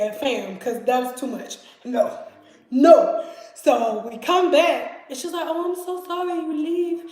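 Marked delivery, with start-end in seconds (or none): 5.5-7.0 high, apologetic imitation of the roommate; cute little roommate. Petite roommate apologizes to the storyteller, high mock-sweet voice. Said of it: "She's just this cute little".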